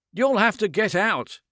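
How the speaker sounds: loud, high, strained command; tortuous intensity. A narrator's reading. Man ordering the woman out of his apartment, strained and loud. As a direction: force him to leave, teeth clenched. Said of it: "speaking with tortuous intensity".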